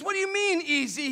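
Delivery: high, loud challenge; indignant question. Retold or imitated. Acted quarrel, boxer challenging.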